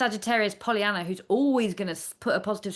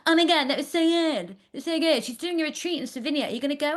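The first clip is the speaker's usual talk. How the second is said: imitating excited students; 7 semitones higher than usual. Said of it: "buzzing with energy".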